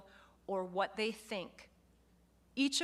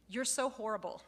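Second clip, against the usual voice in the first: laughing mock insult. Shown as a demonstration. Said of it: "that's not an accurate personal feeling".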